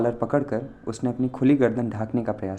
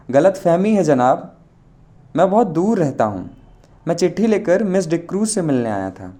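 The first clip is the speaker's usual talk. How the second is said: suppressed laughter; 5 semitones higher, 4 dB louder than usual. A narrator's reading. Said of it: "और हंसी रोक कर बोला".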